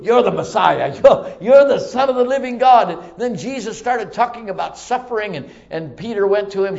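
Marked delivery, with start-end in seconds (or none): 0.0-2.9 loud, fervent proclamation; emphatic declaration. Retold or imitated. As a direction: proclaim it with total conviction. Peter acted declaring who Jesus is.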